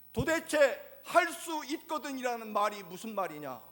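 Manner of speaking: rising into a firm, indignant demand; stern and firm. Acted. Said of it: "아주 엄중하고 단호하게". (높고 크게 엄중히 다그치는 목소리)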